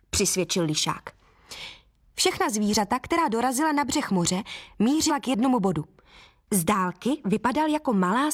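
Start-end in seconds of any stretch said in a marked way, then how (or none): none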